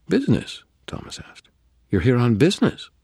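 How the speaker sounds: the vampire surprised that the wizard came on business; incredulous question. A narrator's reading. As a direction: pitch leaps high on Business, amused disbelief. Thomas surprised at reason.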